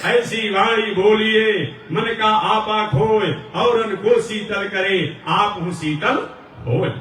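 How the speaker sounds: slow, measured couplet recitation; a gently chanted couplet; recited doha. Acted. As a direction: recite the verse slowly and evenly.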